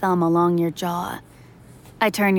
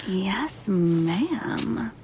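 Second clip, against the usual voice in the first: playful obedience. Acted. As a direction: give in with a teasing lilt. Playfully obeying the lover.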